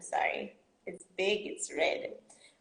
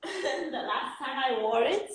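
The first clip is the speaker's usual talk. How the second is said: slow words through a laugh; 4 semitones higher than usual. Real, not acted. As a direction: laugh as you say it. Laughing while telling.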